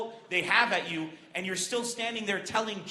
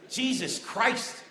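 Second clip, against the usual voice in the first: drawn-out exasperation; much slower than usual. Acted. Imagined ISIS viewer exasperated.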